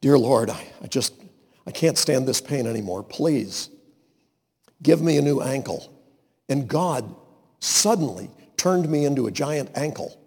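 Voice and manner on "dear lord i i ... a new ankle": softer, halting plea to the Lord; pleading prayer. Retold or imitated. Man in pain prays at the bottom of the stairs, soft and pleading. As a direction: beg quietly, worn down by the pain. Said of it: "stand at the bottom of the stairs and say".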